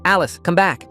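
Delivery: loud, high call down the hall. Acted. Brother calling down the hall, loud. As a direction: call after her. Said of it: "he called".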